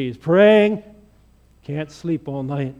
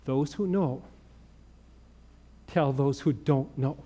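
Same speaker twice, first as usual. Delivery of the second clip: quiet sincere lesson; 4 semitones lower, 6 dB quieter than usual. Acted. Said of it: "That's what it means to be".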